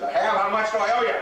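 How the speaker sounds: put-on surprised old man. Old man's eager surprised reply.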